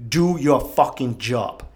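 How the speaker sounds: slow, blunt, every word spaced out; Bill Belichick. Retold or imitated. Quoting the football coach's motto to listeners, slow and blunt. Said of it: "as Bill Belichick would say".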